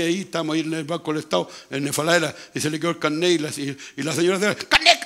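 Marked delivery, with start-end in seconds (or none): 4.7-5.0 loud, high shout of alarm; retold loud call. Preacher re-enacting calling to a lady about her ID card, loud shout. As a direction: call it out sharp and high over a bank counter. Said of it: "la señora fuerte ahí".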